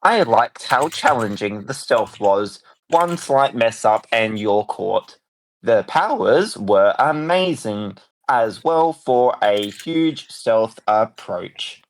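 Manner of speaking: slow, lightly robotic delivery. Pretend. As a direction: recite it slowly like a machine. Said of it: "A I Fenty".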